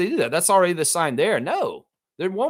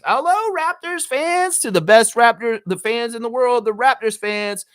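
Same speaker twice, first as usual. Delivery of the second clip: arena announcer impression; 9 semitones higher, 5 dB louder than usual. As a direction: stretch it like a hype announcer on the PA. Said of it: "You could tell she's used to calling".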